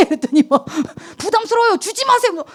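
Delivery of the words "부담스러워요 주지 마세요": much higher, huffy imitation; mock flustered refusal. Friend turning down the pastor's gift, mock annoyed. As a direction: squeal a put-upon "no thanks" as the friend. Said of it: "부담스러워하고 막 팔끔팔끔 화를 내".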